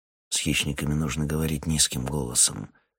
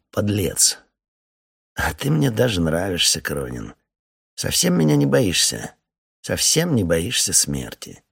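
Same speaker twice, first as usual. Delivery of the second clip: sneering, mocking officer with a gun on a rope; menacing major; 3 dB louder than usual. The major taunts the captain at the mine, sneering. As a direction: taunt him like a cruel major with the upper hand.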